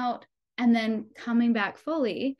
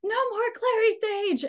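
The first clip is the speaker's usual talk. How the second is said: high, fierce growled refusal; a mother in labour growling her refusal; 11 semitones higher than usual. Retold or imitated. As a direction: snap it at the doula like a warning. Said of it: "I remember growling".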